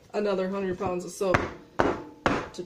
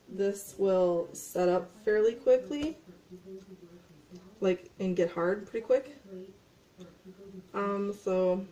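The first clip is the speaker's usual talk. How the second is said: chewing gum; slower than usual. Real, not acted. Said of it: "sorry, I'm chewing gum".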